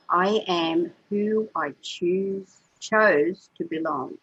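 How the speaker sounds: slow, emotion rising through the quote; getting emotional. Real, not acted. Quoting Carl Jung to a friend, choked up with emotion. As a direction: let the feeling catch you as you quote it. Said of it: "I'm getting myself all emotional here".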